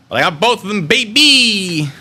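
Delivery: loud, high triumphant exclamation; excited crowing. Real, not acted. Streamer boasting they got both of them in, triumphant.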